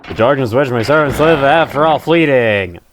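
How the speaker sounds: villain voice. Acted. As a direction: intone it like a dark overlord. Reading the villain's game text.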